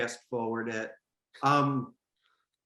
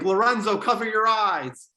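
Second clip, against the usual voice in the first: urgent warning; 8 semitones higher, 5 dB louder than usual. Retold or imitated. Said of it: "I was like".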